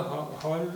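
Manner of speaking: हा- stretched slowly into हॉल with an open o like English hall; pronouncing हॉल the English way for a class; drawn-out demo word. Shown as a demonstration. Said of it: "जिसे English में हॉल कहते हैं".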